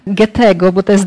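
ordinary talk, nothing marked

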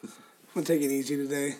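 congested, sick monster voice. Real, not acted. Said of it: "Tony has his monster voice on today".

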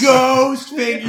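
high, drawn out. Pretend. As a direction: sing it out slowly, delighted. Repeating the phrase, louder.

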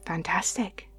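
hushed deity with long, weighty pauses; lightly voiced god, coaxing in halting phrases; god in the ear. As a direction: speak close, like a god giving a mission.

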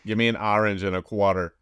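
put-on light tri-state area accent; Hudson Valley accent. Friend joking about Hazel's accent, Hudson Valley accent. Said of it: "I'm so in the Hudson Valley".

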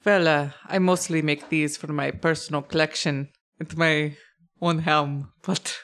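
put-on hesitant dwarf, mild German accent; understated accented craftsman; lightly accented dwarf. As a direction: explain haltingly with a hint of German. Game master plays the dwarf.

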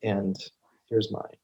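lightly voiced dad, measured and matter-of-fact; a hint of fatherly advice. Shown as a demonstration. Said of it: "I put my dad voice on".

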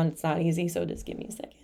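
real choked-up pause, trailing into a near whisper; overcome with emotion. Real, not acted. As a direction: voice sinking away to almost nothing. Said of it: "I'm going back into it right now".

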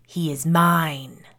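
slow, loud, possessive growl; deep male growl. A narrator's reading. Unseen dead man claims the boy, growling slowly. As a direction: growl it out, drawing the words long. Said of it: "a deep male voice growled".

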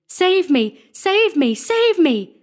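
high, loud pleas for rescue; terrified scream. A narrator's reading. Sexton flees the Black Crusader, screaming in terror. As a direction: cry out for your life, voice way up. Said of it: "he screamed".

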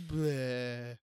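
drawn-out blank "bleh"; mock dumb noise. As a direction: blurt a long, dopey bleh. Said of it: "just, like".

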